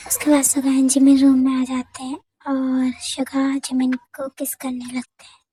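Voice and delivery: usual speaking voice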